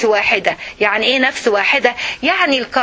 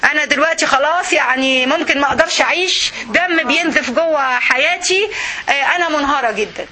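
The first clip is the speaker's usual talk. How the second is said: mock melodrama. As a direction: overplay the wounded wife, then laugh. Mocking a wife's wounded pride. (دراما ساخرة مبالغ فيها)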